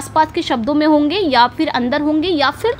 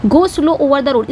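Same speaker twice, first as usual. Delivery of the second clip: slow demo read; much slower than usual. Shown as a demonstration. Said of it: "ओ का sound निकल रहा है".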